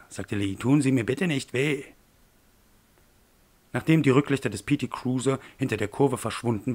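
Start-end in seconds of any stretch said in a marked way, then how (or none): 0.5-1.8 higher, louder begging that drops on the last word; frightened pleading. Acted. Man on the ground begs his attacker, frightened plea. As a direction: plead for mercy with rising fear.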